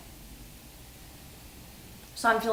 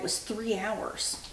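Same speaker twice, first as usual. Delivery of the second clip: whispering; 10 dB quieter than usual. Real, not acted. Hushed aside.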